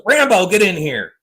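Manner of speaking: high mock yell of the cat's name; neighbor yelling. Mimicking the neighbor at his cat, high mock yell. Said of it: "He goes".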